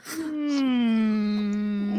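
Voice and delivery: drawn-out, stagey "hmm"; long thoughtful hum. Shown as a demonstration. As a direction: open with a long, held hum. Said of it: "you have to start with".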